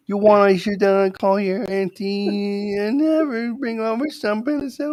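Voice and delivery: put-on very high, slow yenta accent; a doting Jewish mother, slow and high; New York Jewish accent. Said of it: "You sound like a Yenta".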